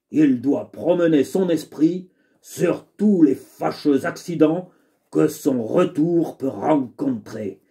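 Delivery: lightly voiced cunning valet; sly valet voice. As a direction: recite the maxim like a sly servant. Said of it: "je lui ai donné une voix un peu particulière".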